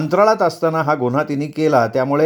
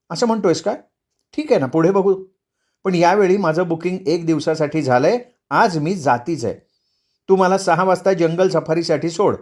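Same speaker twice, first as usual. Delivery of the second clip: higher-pitched wife standing her ground; determined wife; 3 semitones higher than usual. Acted. Wife tells husband she is going today, determined.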